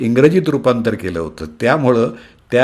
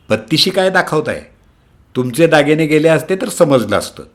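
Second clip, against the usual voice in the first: angry shout; 5 semitones higher than usual. Acted. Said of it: "रागानं म्हणत ... जोरात ओरडल्या".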